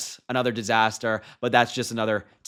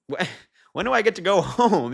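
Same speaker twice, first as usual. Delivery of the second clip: bored rally-goer; 7 semitones higher, 3 dB louder than usual. Retold or imitated. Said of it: "they're even like".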